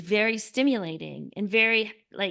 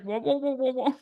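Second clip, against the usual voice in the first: garbled adult noise; 3 semitones higher than usual. Retold or imitated. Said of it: "it's just like".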